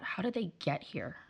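quiet wondering to herself, pitch lifting slightly; curious inner question. Retold or imitated. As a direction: ask it softly, admiring and curious. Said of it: "every time I saw good parental behavior".

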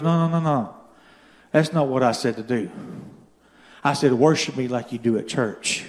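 low, soft voice of God; gentle correction. Acted. God corrects the salesman walking the parking lot, gentle correction.

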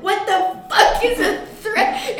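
put-on crazy old coot yelling, high and loud; old prospector voice. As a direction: squawk it like a cranky old prospector. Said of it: "It's my old prospector voice".

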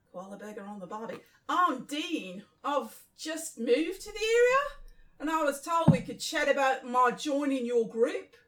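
Aussie newcomer introducing himself; Australian accent. Acted. Jack asking to join the group, Australian accent. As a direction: put on an Australian twang. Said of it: "What's Jack Australian?".

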